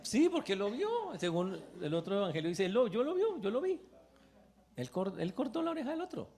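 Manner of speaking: high, loud accusing cry; accusing shout. Acted. Servant accusing Peter before the crowd, high shout. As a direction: point and shout I saw him.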